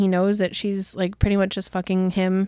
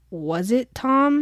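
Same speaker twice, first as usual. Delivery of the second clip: suspicious look; 4 semitones higher, much slower than usual. Retold or imitated. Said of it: "he's looking at her like".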